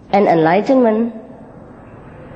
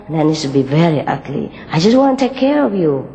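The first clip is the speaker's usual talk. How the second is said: higher, coaxing reassurance; gentle caring green; 3 semitones higher than usual. Acted. Green tends red's bleeding nose, lightly raised and reassuring. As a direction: soothe a hurt friend, lifted and kind. Green soothes injured red.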